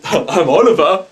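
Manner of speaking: a hint of a bouncy spirit cry; just a touch of the ghost's call; lightly voiced ghost. Psychic briefly voicing the ghost Oliver, a light imitation. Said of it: "the one that goes".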